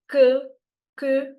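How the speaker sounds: QUE as a short rounded "kuh"; undertoned Q. Shown as a demonstration. Teacher drills the French word for learners, undertoned pronunciation. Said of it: "Q, but with an undertone".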